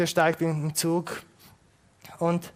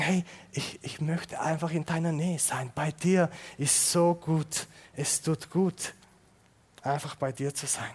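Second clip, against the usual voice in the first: tender prayer; 5 dB quieter than usual. Pretend. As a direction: speak it gently, close and quiet. Gebet an Gott nachgesprochen. (zärtlich, leise und langsam)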